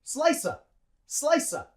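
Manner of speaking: "Slicer" for "slice of", as high-falling "slice-uh"; linked like one word. Shown as a demonstration. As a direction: join "slice" to a short schwa, no V or R. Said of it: "say it like one word".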